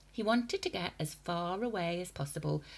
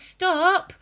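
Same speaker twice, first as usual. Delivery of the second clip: very loud, high panicked shout; boy crying out; 13 semitones higher, 15 dB louder than usual. A narrator's reading. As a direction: scream stop at her. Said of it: "he cried out".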